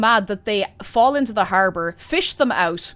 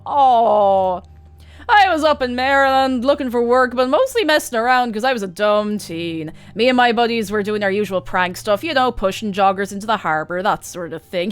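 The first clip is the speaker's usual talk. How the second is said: a lightly louder voice for a chatty ex-prankster bro; chatty dumb bro; 5 dB louder than usual. Acted. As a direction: ramble on like a proud dumb dude. Voicing the bus passenger.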